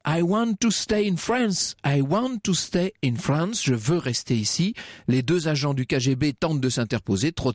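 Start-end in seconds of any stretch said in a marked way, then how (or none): 0.1-4.7 high, drawn-out cry without much volume; storyteller's mock yell, pitched up; narrated yell. A narrator's reading. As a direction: plead it high and urgently, stretching the words. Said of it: "il court vers les policiers et il hurle".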